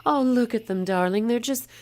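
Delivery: high-pitched snooty wife impression; condescending. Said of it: "she's even condescending in her attempts".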